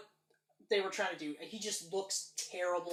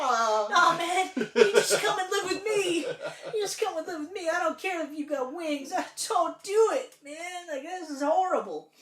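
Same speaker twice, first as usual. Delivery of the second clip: emotional comforting; 9 semitones higher, 7 dB louder than usual. Retold or imitated. Comforting the crying kid.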